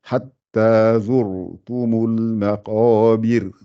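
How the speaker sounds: drawn-out chanted verse; Quranic recitation. Shown as a demonstration. Teacher reciting for students to follow, chanted. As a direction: chant each word with long vowels.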